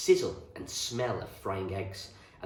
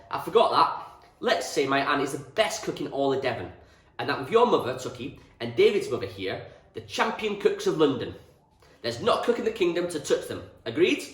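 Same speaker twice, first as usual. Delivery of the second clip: loud, higher booming farmer's voice; hearty farmer; 6 semitones higher, 9 dB louder than usual. A narrator's reading. Mister Reynolds praising Anne's cooking, booming farmer. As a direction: boom it out proudly.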